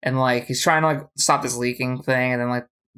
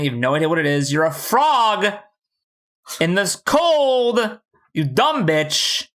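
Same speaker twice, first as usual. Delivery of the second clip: comic telling-off that climbs toward the end; mock exasperated scolding. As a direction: scold in mock disbelief, stretching the last words. Mock scolding of the frog character.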